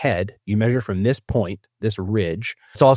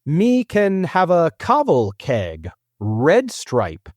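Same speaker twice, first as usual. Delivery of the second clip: slow, raised reading of patois without any accent; deliberately accentless; 5 semitones higher, much slower than usual. Shown as a demonstration. Host reading machine-translated Jamaican order, deliberately accentless. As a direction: sound out the foreign phrase slowly, no accent. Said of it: "I'm doing no accents".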